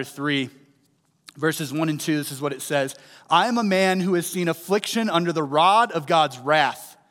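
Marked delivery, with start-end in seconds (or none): 3.3-7.0 louder, solemn reading of "I am a man"; scripture reading. Acted. Preacher reading Lamentations to the congregation, solemn. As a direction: read the verse out with weight.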